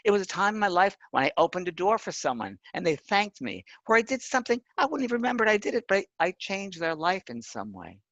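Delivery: a hint of the late friend marvelling; friend's voice. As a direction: recount her awe, voice lifted high. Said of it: "And she said".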